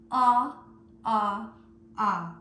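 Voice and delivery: the aw sound held open, said three times. Shown as a demonstration. Teacher modelling the aw sound for children. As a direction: model the vowel aw for the class. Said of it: "Can you say that sound with me three times?".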